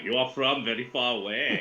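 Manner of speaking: put-on Russian accent at a normal pitch. Shown as a demonstration. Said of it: "I want to do the Russian accent".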